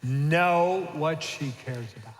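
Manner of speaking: drawn out slowly for repeating; slow, deliberate lead. Shown as a demonstration. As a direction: spell it out slowly for the men. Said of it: "I'll try it again".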